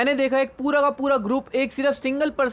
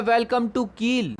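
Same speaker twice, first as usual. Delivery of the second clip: slow menacing welcome; much slower than usual. Acted. Villain welcomes Nagato into gang.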